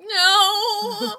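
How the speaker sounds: high loud sung No; singsong shout. Retold or imitated. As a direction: sing out a loud defiant No. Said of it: "I'm like".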